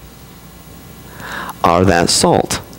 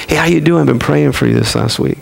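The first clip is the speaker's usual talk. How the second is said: cheery neighbor greeting; 8 semitones higher than usual. Pretend. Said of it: "Nobody talks like that".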